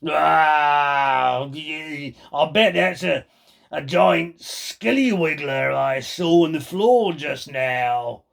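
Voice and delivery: lightly voiced slow teasing husband; sly old man. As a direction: feign innocent concern, slowly. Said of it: "Mister Twit said".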